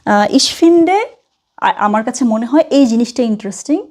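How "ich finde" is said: very slow, drawn-out ich finde; slow model phrase. Shown as a demonstration. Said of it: "আপনি just এটা বলবেন যে". (ধীরে ধীরে ich finde বলা)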